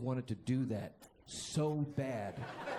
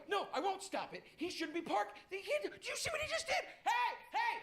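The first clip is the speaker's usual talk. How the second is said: indignant. Retold or imitated. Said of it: "And I go".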